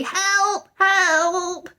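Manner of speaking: high, urgent call for help; desperate high-pitched yells; loud cry for help. A narrator's reading. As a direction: shout it out, stranded. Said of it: "then very loudly".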